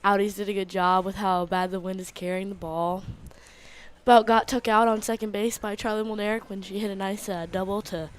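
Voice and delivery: out of breath after playing; talking between hard breaths; heavy breathing. Real, not acted. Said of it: "Sorry, I'm breathing hard".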